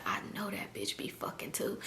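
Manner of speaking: gossipy whisper to a friend. Retold or imitated. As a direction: retell it in a hushed, voiceless aside. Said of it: "I start whispering to Shy".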